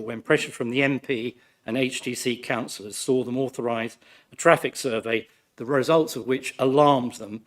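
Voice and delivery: hoarse, croaky from flu. Real, not acted. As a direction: speak through a sore, croaky throat. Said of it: "Please excuse my croaky voice".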